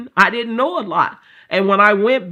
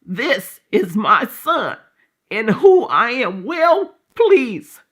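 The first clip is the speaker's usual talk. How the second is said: solemn, very slow divine pronouncement; slow voice of the Lord; 2 semitones higher, much slower than usual. Retold or imitated. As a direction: intone each word like scripture. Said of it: "he said".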